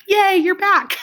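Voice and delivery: high, loud, drawn-out cheer; excited welcome. Pretend. Teacher welcomes pupils back from a pause, excited cheer.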